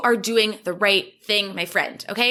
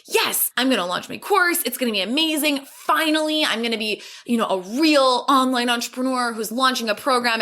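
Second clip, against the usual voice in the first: higher, bubbly mock excitement about the launch; imitating excitement; 3 semitones higher than usual. Client starting a launch, imitated with excitement. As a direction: play the eager new launcher, voice lifting. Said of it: "this wave of excitement and enthusiasm".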